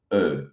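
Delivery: "E" with rounded lips, tongue forward; closed rounded vowel; French E. Shown as a demonstration. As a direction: round the mouth and say "E". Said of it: "com a boca arredondada".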